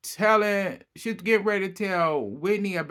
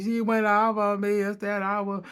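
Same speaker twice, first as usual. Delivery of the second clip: higher mock-whimpering complaint; fake crying; 5 semitones higher than usual. Lisa complaining to her husband, mock teary whine. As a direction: whine it like a put-on victim. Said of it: "started fake crying again".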